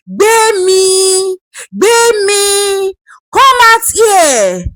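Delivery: Gbemi called high and sharp; calling out high. Acted. Grandmother summoning the wife out, high and commanding. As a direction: summon her from the room.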